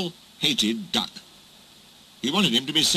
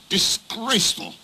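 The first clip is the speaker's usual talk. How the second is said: outraged; 8 semitones higher than usual. Acted. Gordon hears why trucks laugh, outraged. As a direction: declare it with lofty disapproval.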